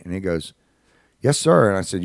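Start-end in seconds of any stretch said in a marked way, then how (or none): 1.2-1.7 put-on higher, louder little-boy reply; lightly acted child, loud and high; little kid. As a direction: imitate an eager small boy, pitched up. Voices little kid answering him.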